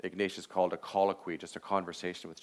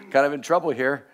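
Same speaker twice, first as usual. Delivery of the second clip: laughing mock distress; 7 semitones higher, 13 dB louder than usual. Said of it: "the shortest prayers are".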